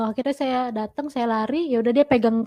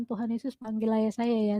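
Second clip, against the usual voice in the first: silent prayer; 2 semitones lower, 7 dB quieter than usual. Retold or imitated. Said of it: "Saya dalam hati saya cuma berdoa".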